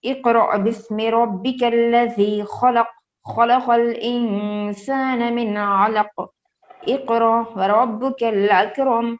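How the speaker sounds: slow, drawn-out tilawat; Quran recitation. Shown as a demonstration. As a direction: recite the verses slowly and evenly, word by word. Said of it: "ایک دفعہ پھر سے پڑھتی ہوں". (آہستہ اور ٹھہر کر تلاوت)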